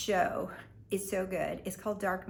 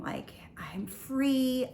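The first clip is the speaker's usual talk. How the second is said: breathy whisper; 4 semitones higher, much slower than usual. Retold or imitated. Dreamy free feeling.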